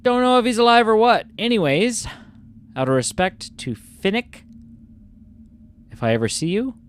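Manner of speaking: put-on English accent. Player reading out the letter's ending, English accent. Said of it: "read this in an English accent".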